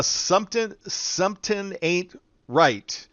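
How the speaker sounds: high, drawn-out team name; slow, high-pitched announcing of a name; deliberately slow catchphrase. Pretend. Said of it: "I gotta say it slow".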